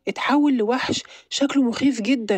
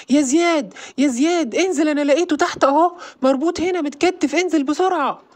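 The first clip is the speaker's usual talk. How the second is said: calling out; 5 semitones higher than usual. Acted. Calling friend from downstairs.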